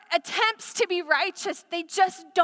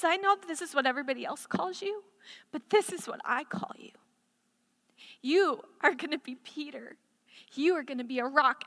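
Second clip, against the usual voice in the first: soft intimate assurance; 4 dB quieter than usual. Acted. Jesus' intimate words voiced softly.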